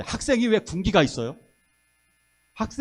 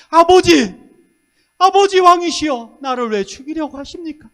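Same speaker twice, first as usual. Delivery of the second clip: much higher, much louder anguished plea; anguished cry; 9 semitones higher, 10 dB louder than usual. Retold or imitated. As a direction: cry out to the father-king in anguish. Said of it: "다윗은 이렇게 얘기합니다".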